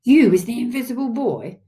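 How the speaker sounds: thrilled father's outburst; squiffy with excitement. A narrator's reading. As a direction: marvel aloud at a discovery. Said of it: "squiffy with excitement".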